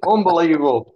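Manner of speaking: words breaking into real laughter; laughing while talking. Real, not acted. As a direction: crack up as you talk. Cracking up at own channel story.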